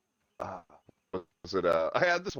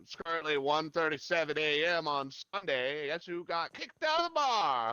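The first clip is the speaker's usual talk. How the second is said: put-on high, slurred drunk guy leaving a message; drunk dad voicemail; 4 semitones higher, 4 dB louder than usual. Drunk dad leaving a late-night voicemail, slurring high.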